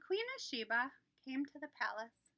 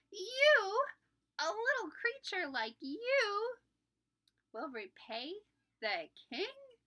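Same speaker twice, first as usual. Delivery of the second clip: much higher, louder, slow amused scoff; laughing disbelief; 9 semitones higher, 7 dB louder, slower than usual. Acted. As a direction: laugh at the tiny bee. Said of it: "burst out laughing".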